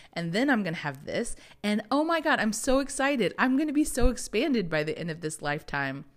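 giddy soul. Pretend. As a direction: pitch it like a thrilled kid before a trip.

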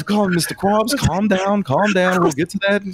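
high-pitched, insistent calming; placating half-elf leader. Acted. Half-elf calming the angry goblin, high and placating. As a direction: talk him down in a high voice.

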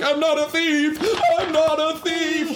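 high-pitched, strained mock yell. Imitating him shaking her, mock yelling. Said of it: "'cause I'm yelling".

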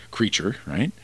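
soft unvoiced whisper on the tag; whispered aside. Real, not acted. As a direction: drop to a breathy whisper.

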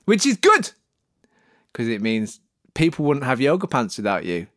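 ordinary talk

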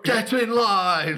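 high, loud, slow command; barked order. Retold or imitated. Captain Britain ordering a queue-jumper into line, shouting. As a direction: yell the order. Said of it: "he'd be like".

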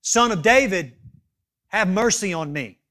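retold cry, easing off at the end. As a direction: act out a beggar calling for mercy. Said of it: "that beggar begins to cry out".

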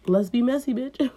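playful snake sass; sassy snake. Acted. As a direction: tempt him with sass. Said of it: "He's like".

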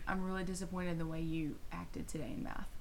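soft stern teacher voice; quiet disappointment, stern but soft. Retold or imitated. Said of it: "That's a teacher voice".

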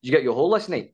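nosy question in mimicked Scottish accent; Scottish driver. Driver quizzing his passenger about last night, mock Scottish accent. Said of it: "drivers who kind of picked us up in Scotland".

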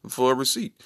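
lightly voiced mock toff, a chuckle mid-phrase; monocled posh gentleman. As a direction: play at being a waiting aristocrat. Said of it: "took his monocle out, he was like".

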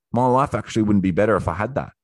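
said fast, as it dawns; quick realization. Acted. Acted realization, said twice differently.

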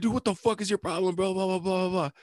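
high-pitched mock rant; imitated yelling. Friend rants at the prankster over the phone, imitated yelling. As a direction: imitate an irate friend, trailing into blahs. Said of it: "And he's still yelling".

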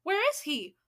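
high, loud sharp question; irritated demand; snapping. A narrator's reading. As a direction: snap it as an angry witch. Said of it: "snapped the Grand High Witch".

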